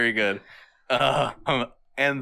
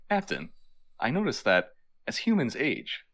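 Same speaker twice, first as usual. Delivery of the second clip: understated, softer impression of aging Data; old-age affect; 4 dB quieter than usual. Data explaining aging to his captain, lightly affected old voice. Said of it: "took on that affect".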